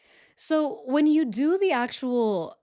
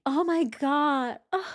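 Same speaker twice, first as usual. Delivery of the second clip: drawn-out, higher mock exasperation; mock upset; 7 semitones higher, slower than usual. Host acts out being upset at boyfriend, mock exasperated. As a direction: act out exasperation, stretched out. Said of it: "if I was really that upset".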